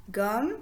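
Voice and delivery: "Gomme" broken into gom, pause, me; split into syllables. Shown as a demonstration. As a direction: sound the final e of "Gomme" as its own syllable. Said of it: "composé de deux syllabes". (« Gomme » découpé : gom, me)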